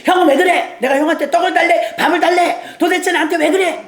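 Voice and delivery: hammed-up sibling squabble with a laugh; half-laughing mock quarrel. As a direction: play the brother picking a fight, with a chuckle. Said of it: "엘리압하고 붙어서".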